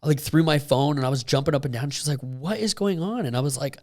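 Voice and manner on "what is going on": much higher, slow, drawn-out question; retold bewilderment. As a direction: imitate a baffled onlooker. Retold reaction to her jumping around.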